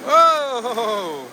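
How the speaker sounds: long, falling whoa; real startled whoa. Real, not acted. Rider reacting to the water ride, startled whoa. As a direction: whoa drawn out and trailing down.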